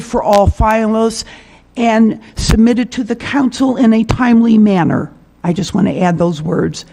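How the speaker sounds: losing her voice; weak voice. Real, not acted. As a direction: voice giving out, strained. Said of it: "Sorry, my voice is going".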